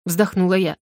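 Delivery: ordinary delivery, nothing marked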